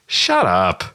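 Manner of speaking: stretched, wobbly "shut up"; drawn-out wiggly shut up. Retold or imitated. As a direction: drag it out with a wiggle. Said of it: "the drawn out kind of wiggly".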